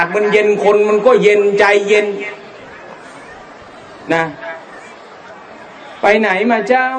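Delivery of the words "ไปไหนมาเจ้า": slow, drawn-out northern Thai lilt; northern Thai accent. Retold or imitated. Preacher imitating a slow northern greeting, in northern Thai accent. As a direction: drawl it gently like a relaxed northern villager. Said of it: "มันก็จะออกเย็นๆ".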